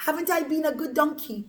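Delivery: high, quick donkey voice; talking donkey. Acted. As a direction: protest as a hurt storybook donkey. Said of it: "the donkey spoke like a person".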